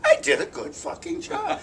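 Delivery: high, excited brag; proud boast. Retold or imitated. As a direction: crow about it, delighted. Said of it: "I said".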